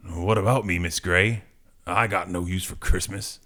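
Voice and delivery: lightly voiced gruff reply, pitched low; low, grumpy comic hero. Acting out Wolverine's reply.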